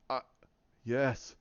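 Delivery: villain taunts a frightened Rey, slow and low; smug villain. Retold or imitated. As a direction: savour each word like a predator. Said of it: "he's sitting there and he's smiling".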